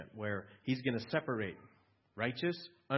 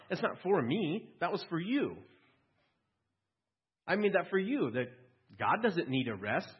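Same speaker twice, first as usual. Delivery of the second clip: raised, higher and louder voice of Jesus rebuking; 5 semitones higher, 4 dB louder than usual. Acted. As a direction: speak as Jesus setting the religious leaders straight, raised. Preacher voicing Jesus rebuking Pharisees.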